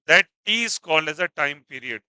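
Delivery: very slow, every word spelled out for students; slow definition. Shown as a demonstration. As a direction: dictate the definition slowly. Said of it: "teacher states the definition".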